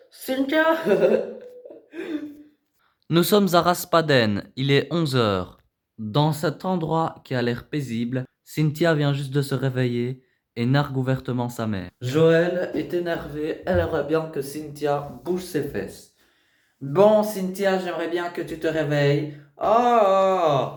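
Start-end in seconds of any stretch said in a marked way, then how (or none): 0.1-0.6 called out high with a rising end; mother calling her teen daughter by name. Acted. 3.1-16.1 low, measured TV voice-over; documentary narration. A narrator's reading. Reality show voice-over.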